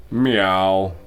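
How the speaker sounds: a voiced meow, fairly loud; cat meow. A narrator's reading. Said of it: "he said".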